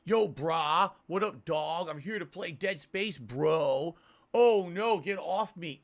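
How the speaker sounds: a hint of a try-hard gamer bro; mock bro YouTuber. Mocking a popular YouTuber's obnoxious commentary, lightly voiced bro. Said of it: "they're using this stupid".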